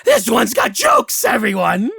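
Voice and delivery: high, loud, gleeful witch voice; mocking hag. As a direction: announce the joke to the coven. Hag mocking to her sisters.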